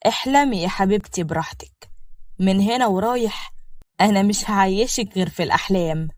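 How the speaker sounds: understated sly sweet talk; a touch of cunning under the endearments. Acted. Shehab answering his dreamy new bride, slyly. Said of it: "شهاب رد عليها بخبث".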